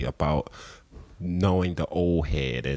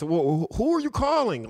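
acted phone guy; 12 semitones higher than usual. Guy on phone voiced, retold.

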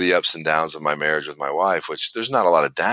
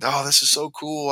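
imitating Trey; 10 semitones higher than usual. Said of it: "he said".

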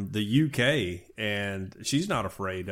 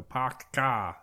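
dropping the r, long flat A; Boston accent; 4 dB quieter, slower than usual. Retold or imitated. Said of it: "that's my Boston impression".

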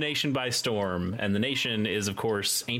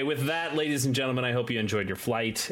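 flight attendant; 3 semitones higher than usual. Acted. Mock airline sign-off to listeners.

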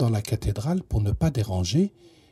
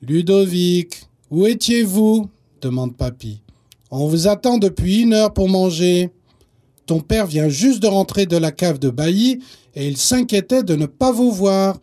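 louder, higher scolding; scolding grandfather; 4 semitones higher, 4 dB louder than usual. Acted. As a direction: grandpa telling them off. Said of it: "ils se font gronder". (grand-père qui gronde, plus fort)

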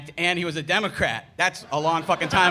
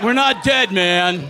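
biker voice; 6 dB louder, slower than usual. Retold or imitated. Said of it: "they're like".

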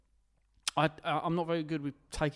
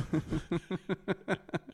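laughing; 3 semitones higher, 4 dB quieter than usual. Real, not acted. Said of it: "why are you laughing like that's rude".

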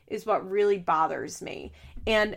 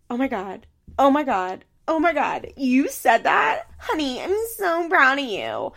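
mock awe building louder and higher; mock gushing; 3 semitones higher, 5 dB louder than usual. Vlogger mimics Mandy telling Chelsea she's proud, mock gushing. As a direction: overdo the proud praise, sarcastically. Mocking Mandy praising her daughter.

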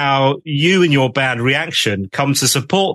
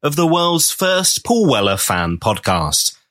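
measured scripted presenter delivery; podcast intro read. Acted. Host welcomes listeners and introduces the episode, scripted presenter read. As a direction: read it like a rehearsed radio introduction.

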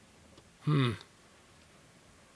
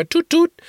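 higher, light imitated car horn; cheerful horn toots; friendly toot; 4 dB louder than usual. Shown as a demonstration. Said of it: "you wanna say something friendly".

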